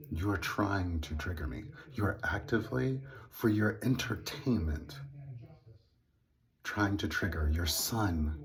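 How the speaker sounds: slow, measured retold reproach; deliberate confrontation. Son confronting his father about triggering him, slow and deliberate. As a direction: spell out the accusation slowly and firmly.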